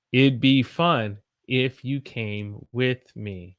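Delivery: slow, clear teacher sentence; slow model for repeating. Shown as a demonstration. Teacher modelling it'd slowly for students to repeat. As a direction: lay it out slowly for the class. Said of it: "I want you to repeat after me".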